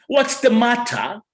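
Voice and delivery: "matter" with a sharp British T, slowly; slow crisp matter. Shown as a demonstration. Host mocks UK English: slow crisp T in matter. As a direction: say matter with a clipped T, drawn out. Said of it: "what the matter".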